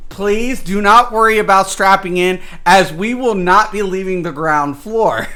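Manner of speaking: lightly voiced theme park ride announcer; a hint of a tour guide talking down to newbies; mock ride announcer. The dungeon welcoming new players, lightly mock tour guide. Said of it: "It's designed to say".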